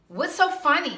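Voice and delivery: high laughing question; nervous giggle. Retold or imitated. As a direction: giggle through the words. Mocking a giggling talker.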